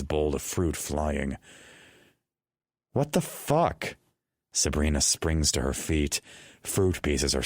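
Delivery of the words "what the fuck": high, slow, shocked outburst; shocked and high-pitched; startled shriek. A narrator's reading. Sabrina startled by flying fruit.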